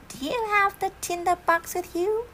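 witch voice. Acted. Witch asks from above.

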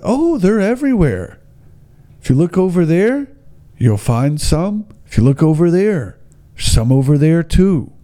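high, lilting mock Minnesota accent; imitated Minnesota-like accent. Guide points out tracks everywhere, imitated Minnesota accent. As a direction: point things out in a put-on Minnesota singsong. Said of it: "I don't know how to do the accent".

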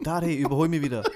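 calling out loudly ahead; shouting. Retold or imitated. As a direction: yell back over your shoulder. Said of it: "habe ich ihm immer geschrien".

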